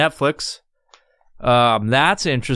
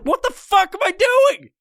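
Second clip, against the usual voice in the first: self-reproach. Retold or imitated. Catching himself scrolling Facebook, high exasperated shout. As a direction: yell at yourself, fed up. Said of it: "I'm like".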